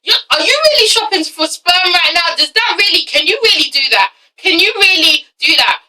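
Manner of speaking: stammer, then question it in mock disbelief; acted-out bafflement; incredulous reaction. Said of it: "And I'm like".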